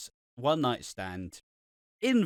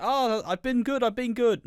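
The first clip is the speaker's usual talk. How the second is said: whiny Sam; 10 semitones higher, 3 dB louder than usual. Retold or imitated.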